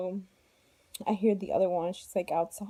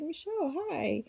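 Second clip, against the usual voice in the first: lightly imitated friendly doctor, high on the name; nice doctor greeting; 7 semitones higher than usual. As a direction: greet a patient kindly, voice lifting at first. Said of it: "he was so nice".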